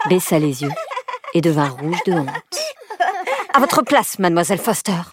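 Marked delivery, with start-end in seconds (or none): 3.5-5.0 sharp scolding schoolteacher; scolding teacher. Acted. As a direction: scold her from the front. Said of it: "gronda madame White".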